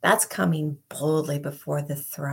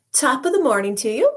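hammed-up Irish accent, higher, louder and fast; mock Irish accent; 7 semitones higher, 7 dB louder, faster than usual. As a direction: throw out a playful fake Irish greeting. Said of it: "I do not have an Irish accent".

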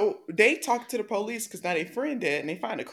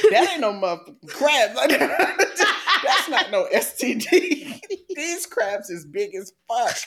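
laughing quote. Retold or imitated. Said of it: "Dee Dee ass said".

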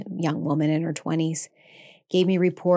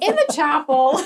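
tearful answer; 9 semitones higher, 5 dB louder than usual. Retold or imitated. Retelling tearful reply to doctor.

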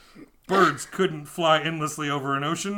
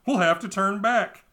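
gloomy sailor; 7 semitones higher, 6 dB louder than usual. A narrator's reading. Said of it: "said a third man".

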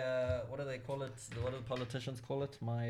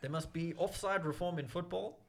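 Winston Churchill; 5 semitones higher than usual. Pretend. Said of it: "you sounded like Winston Churchill".

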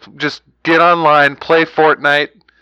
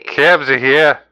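lightly hammed-up Jersey Shore talk; Jersey accent; 2 semitones higher, slower than usual. Host puts on a Jersey accent to tease his co-host. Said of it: "Still not Jersey".

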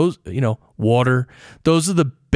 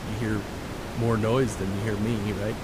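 much softer, barely above the background; talking lower; 3 semitones lower, 9 dB quieter than usual. Shown as a demonstration. Host demonstrating noise drowning his soft voice. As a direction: speak low so the words nearly vanish. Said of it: "what if I talk a little lower?".

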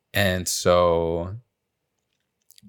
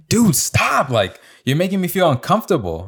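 high-pitched, put-upon complaint; mock protest; 9 semitones higher than usual. Imitating the stared-at coworker, uncomfortable protest. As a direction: imitate someone begging to be left alone.

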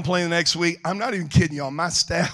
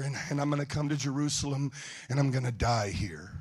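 quiet, grave confiding; 2 semitones lower, 10 dB quieter than usual. Retold or imitated. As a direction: break hard news gently to close friends. Jesus breaking grave news to disciples.

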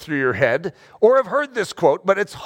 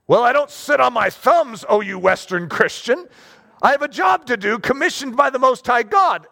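defiant retort; 4 semitones higher than usual. Retold or imitated. Persecuted Christian retorting to westerners.

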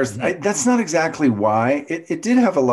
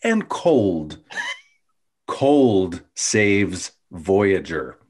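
slow poem recital; 2 semitones lower, much slower than usual. Acted. Reciting her episode haiku.

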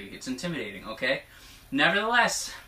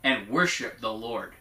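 prophetic proclamation. Acted. Relaying God's promise to the congregation, prophetic proclamation. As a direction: proclaim it as a solemn vow.

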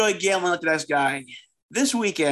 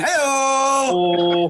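excited shout; 6 semitones higher, 4 dB louder than usual. Acted. Ad read cheer.

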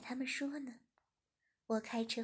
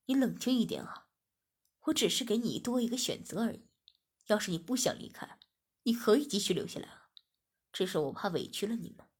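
soothing; 2 semitones lower, 5 dB louder than usual. Acted. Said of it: "我马上安慰着说".

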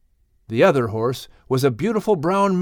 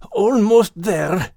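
high, slow, lightly voiced dog; to himself; 6 semitones higher, 3 dB louder, slower than usual. A narrator's reading. Max telling himself he is almost there. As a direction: murmur encouragement to yourself. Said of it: "Max said to himself".

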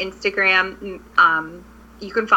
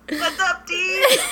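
laughing through a quick greeting; 10 semitones higher, slower than usual. Real, not acted. Co-host greets the famous friend, laughing. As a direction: giggle out the hello, much higher.

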